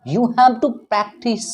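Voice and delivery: you have to practice said very slowly; deliberate teacher's slow repeat; slow emphasis. Shown as a demonstration. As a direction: drag it out word by word. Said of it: "slow emphatic repeat".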